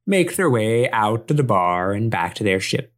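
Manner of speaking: lightly voiced pirate narrator; a hint of an old sea dog telling the tale. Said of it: "the way you launched into that voice".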